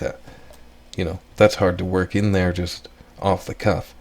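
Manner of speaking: ordinary delivery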